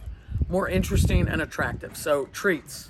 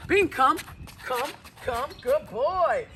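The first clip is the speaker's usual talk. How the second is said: cheerful recall; 6 semitones higher, slower than usual. Real, not acted. Calling dog in training.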